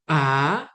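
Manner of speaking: A rising steadily; second tone. Shown as a demonstration. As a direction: slide A upward like a question.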